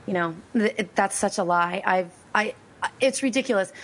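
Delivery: worn-out, raspy voice after losing it; hoarse voice. Real, not acted. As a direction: push words through a spent, strained voice. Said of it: "So now I have no voice".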